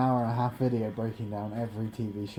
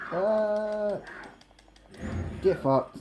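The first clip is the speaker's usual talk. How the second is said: Wolverine impression; 10 semitones higher, much slower than usual. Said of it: "That's my Wolverine impression".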